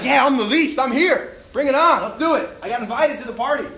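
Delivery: loud, high and laughing excitement; thrilled to be invited, burst out; hyped-up shout of joy; pumped. Retold or imitated. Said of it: "he was probably pumped".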